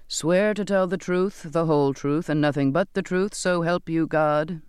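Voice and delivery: administer the oath in measured phrases; intoned oath. A narrator's reading. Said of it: "the captain intoned".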